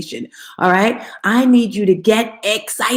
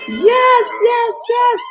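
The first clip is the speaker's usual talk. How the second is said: laughing high yells of joy; excited shout; much slower than usual. Real, not acted. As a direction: celebrate the crowd's energy. Crowd cheer success.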